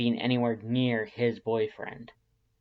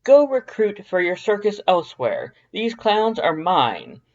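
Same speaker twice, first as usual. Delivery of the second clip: recited haughty dismissal; 8 semitones higher, 11 dB louder than usual. A narrator's reading. Papyrus quoting a rude stranger, high and loud. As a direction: carefully recite the cold brush-off. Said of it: "emphasizing the accuracy of his recitation".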